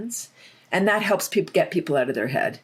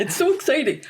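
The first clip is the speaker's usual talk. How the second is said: excited; 9 semitones higher than usual. Real, not acted. Gushing about laughter.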